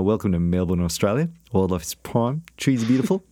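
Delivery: lightly put-on Melbourne Australian welcome; Australian accent. Co-host showing the Melbourne accent the guys like, Australian accent. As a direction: play the Aussie tour greeter, Melbourne style. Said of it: "the guys like my Melbourne".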